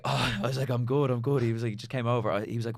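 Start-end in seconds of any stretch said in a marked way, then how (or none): 0.0-1.4 slightly raised, louder insistence; retold reassurance. Crying man telling his mate he is fine, lightly re-enacted reassurance. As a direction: lightly act out waving a worried friend off.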